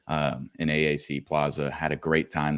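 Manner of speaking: hoarse morning-after voice; a little rough and hoarse. Real, not acted. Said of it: "my voice is a little, little rough this morning".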